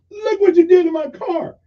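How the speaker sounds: high, loud angry yell that eases off; mock furious road-rage yell; retold yell. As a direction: bark it at the old man like a furious driver. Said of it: "he yells at him".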